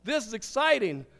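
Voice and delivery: a loud burst of surprise, retold; whoa, this is exciting, hammed up; suddenly thrilled at the gas pump, retold; excited whoa. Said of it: "and I thought".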